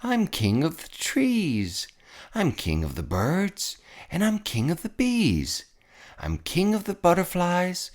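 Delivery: a hint of a vain king crowing; king crowing over his domain; gloating king. A narrator's reading. Yertle gloating.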